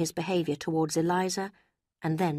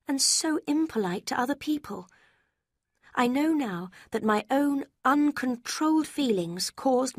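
put-on raised, earnest young woman voice; remorseful young woman; 6 semitones higher than usual. A narrator's reading. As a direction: confess with regret, gently pressing. Marianne confessing her faults.

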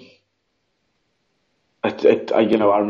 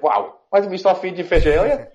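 amazed; 10 semitones higher than usual. Retold or imitated. Owner marvelling at her pet's shiny coat, amazed. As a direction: marvel in a much higher voice.

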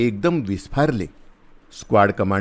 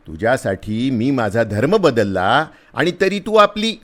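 louder, higher give-up voice; exasperated plea; 5 semitones higher, 5 dB louder than usual. A narrator's reading. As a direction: throw up your hands in despair. Exasperated soldier pleads with girl.

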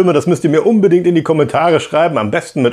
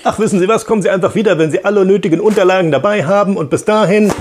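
impatient clerk; 5 semitones higher, faster than usual. Acted. Bureaucrat losing patience.

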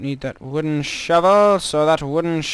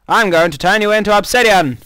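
louder, higher mock villain threat; 5 semitones higher, 6 dB louder than usual. Gloating at the lava pit, hammed-up villain threat. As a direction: gloat like a cartoon baddie.

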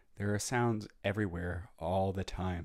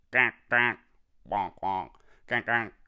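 small ducks quacking; 8 dB louder than usual. Retold or imitated. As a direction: quack like an eager little duck. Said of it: "The small ducks ... say".

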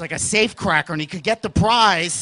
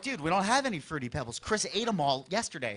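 quiet, hushed; 4 semitones lower, 10 dB quieter than usual. Retold or imitated. Hushed morning kids.

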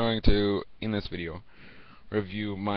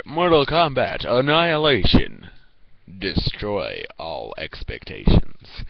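movie trailer voice; 5 dB louder, slower than usual. Pretend. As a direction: read it like a movie tagline. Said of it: "it would say".

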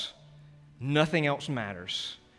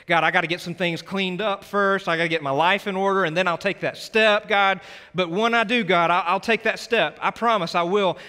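urgent, louder, higher pleading; pleading promise to God; 5 semitones higher, 5 dB louder than usual. Pretend. A preacher voicing a sinner pleading with God. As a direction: bargain with God, promising to get clean first.

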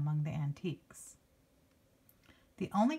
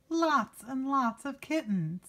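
higher and louder, delighted; excited; 7 semitones higher, 4 dB louder than usual. A narrator's reading. Reader gasping at the pile of kittens, excited. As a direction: burst out with the kitten surprise.

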